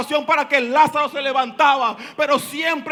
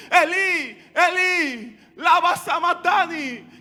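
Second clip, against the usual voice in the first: clamoring; 3 semitones higher, 4 dB louder than usual. Acted. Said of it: "como clamando como Jesús".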